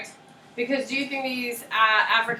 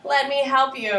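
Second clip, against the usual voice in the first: higher, slow, syrupy offer of help; mock eager helper; 5 semitones higher, 4 dB louder, slower than usual. Teacher voicing England faking kindness to the Afrikaners. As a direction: sound falsely generous. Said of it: "England comes in and says".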